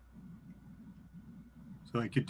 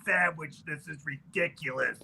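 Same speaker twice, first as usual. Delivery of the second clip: put-on raspy old woman. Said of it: "your voice is deeper and more raspy than mine".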